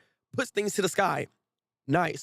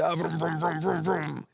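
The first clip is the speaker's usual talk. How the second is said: mock engine noise. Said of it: "He said".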